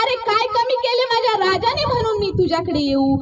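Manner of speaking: defiant cry in an orator's voice; mild retold shout. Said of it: "Murar ओरडला".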